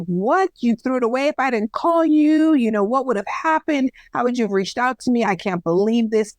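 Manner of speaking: getting heated. Retold or imitated. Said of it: "I'm getting heated".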